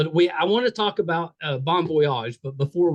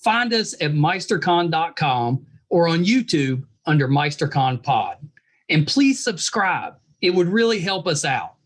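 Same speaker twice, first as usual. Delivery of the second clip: podcast promo read. Acted.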